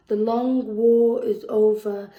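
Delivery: repeating the news as the crowd celebrates; emphatic repeat. Acted. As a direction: proclaim it to the crowd. Poem line repeated with force.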